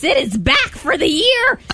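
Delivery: hammy Halloween witch, drawn out; spooky witch voice. Acted. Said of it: "It's time for me to use my spooky witch voice".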